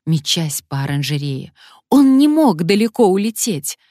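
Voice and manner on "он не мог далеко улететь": high, loud shriek. Acted. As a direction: screech in panic. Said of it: "верещала Алёна".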